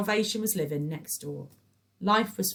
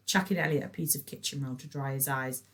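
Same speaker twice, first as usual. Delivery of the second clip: ordinary delivery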